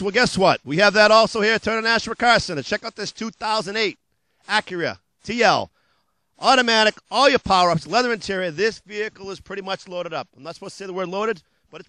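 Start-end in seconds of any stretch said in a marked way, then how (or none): 0.0-8.5 punchy pitchman patter, loud on the hooks; hard-sell ad read. Acted. Car dealer pitching used cars to TV viewers, hard-sell ad voice. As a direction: sell it like a late-night car ad.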